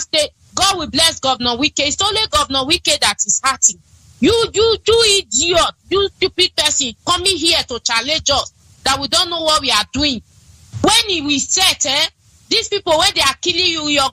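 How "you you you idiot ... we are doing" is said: high-pitched angry tirade; indignant, raised-pitch rebuke; angry scolding. Real, not acted. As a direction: lash out at the opponent. Scolding an opponent in political address.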